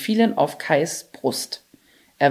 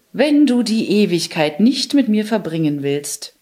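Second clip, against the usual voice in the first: commanding. Acted. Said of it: "befahl die Schneekönigin".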